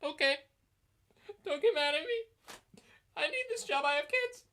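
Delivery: tiny, high, whimpering voice; meek, scared referee. Retold or imitated. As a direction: plead tearfully in a mock squeak. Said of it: "the referee was like".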